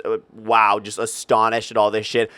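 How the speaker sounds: usual speaking voice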